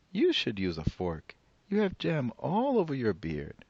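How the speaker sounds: put-on high, bright old granny greeting a guest; old woman voice. Old woman welcoming the rabbi at her door, high and cheery. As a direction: play the cheerful old grandmother.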